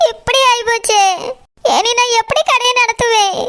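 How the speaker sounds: mildly tearful, despairing lament; tearful wail. Acted. Stall owner bemoaning her closed idli shop, tearful lament. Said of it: "Saroja, அழாத சரோஜா".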